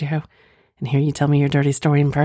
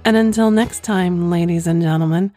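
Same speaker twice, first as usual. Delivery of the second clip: breathy vintage purr; 3 semitones higher than usual. Acted. Sultry podcast sign-off.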